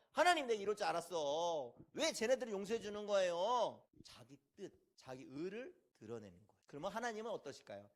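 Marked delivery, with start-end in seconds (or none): 0.1-3.8 acted grumbling at God; mild angry complaint. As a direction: protest with a touch of indignation. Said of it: "하나님한테 화내면서". (살짝 화내며 따지는 말투)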